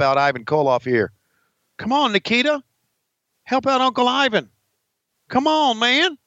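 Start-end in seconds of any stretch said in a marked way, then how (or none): 1.8-6.2 excited cheering. Real, not acted. Cheering wrestler on TV.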